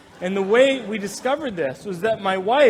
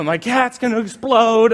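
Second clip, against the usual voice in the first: raised, louder mock alarm; acted panic; 4 semitones higher, 5 dB louder than usual. Husband hunting for escaped cat, mock panic. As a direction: blurt it in comic alarm.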